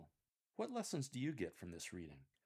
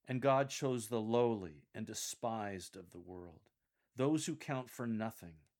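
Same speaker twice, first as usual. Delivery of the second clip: slow, emphatic scripture reading, firm and louder; more serious; 5 dB louder than usual. Shown as a demonstration. Coach models Paul's verse for lectors, very serious. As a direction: weigh the words gravely and firmly. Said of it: "Continue with an even more serious tone".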